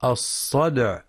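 الصدع with a bouncing d; الصدع, popped d and light final ayn; qalqalah on dal. Shown as a demonstration. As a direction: echo the d of الصدع before the ayn. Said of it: "ولقلقلة الدال الساكنة".

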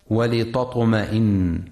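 ولتطمئن with heavy emphatic t; ولتطمئن misread with a thick, emphatic t; wrong reading demo. Shown as a demonstration. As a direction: show the error: ولتطمئن with a heavy t. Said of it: "لترقيق التاء وعدم تفخيمها".

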